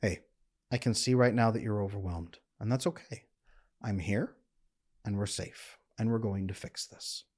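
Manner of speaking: gentle steady calming voice; calm low voice. Shown as a demonstration. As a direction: speak low and slow to soothe them. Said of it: "you speak slowly, just like I'm speaking right now. You use a lower voice".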